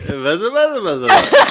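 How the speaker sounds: put-on high, loud little-kid voice with a laugh; toddler lisp. Father quoting the toddler's lisp for his wife, high. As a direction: squeal it like a lisping toddler. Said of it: "He couldn't say anything right".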